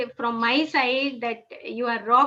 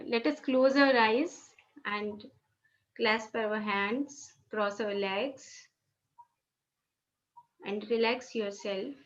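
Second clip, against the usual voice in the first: slow, soft meditation guidance; guided meditation; 3 semitones lower, 6 dB quieter, slower than usual. Acted. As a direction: ease the group into stillness. Starts group meditation.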